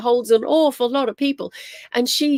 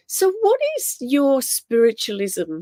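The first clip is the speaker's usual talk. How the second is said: lightly imitated Brazilian accent, slowed down; 3 semitones higher than usual. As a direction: quote him slowly with a hint of a Brazilian accent. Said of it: "he had an accent".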